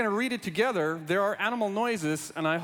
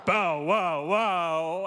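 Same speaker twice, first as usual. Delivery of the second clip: mock dog bark; 4 dB louder, much slower than usual. Barking dog noise in kids' book.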